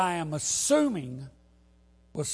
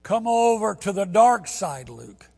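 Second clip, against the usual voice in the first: louder, higher mock-menacing quote; higher, louder dramatic film quote; hammed-up movie line; 4 semitones higher, 8 dB louder than usual. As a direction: ham up the villain line. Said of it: "If you like Star Wars".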